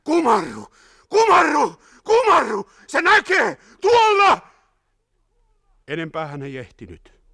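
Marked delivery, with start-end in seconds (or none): 0.0-4.5 high, loud frantic warning; sudden shouting. A narrator's reading. Wounded man warning his rescuer of the gunner, shouting. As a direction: scream at him to get down. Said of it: "Mies alkoi äkkiä huutaa".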